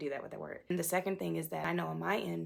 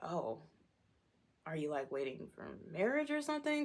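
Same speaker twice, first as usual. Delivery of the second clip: imitated awkward question, pitched up after a pause; put-off date; 2 semitones higher than usual. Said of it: "they're just like".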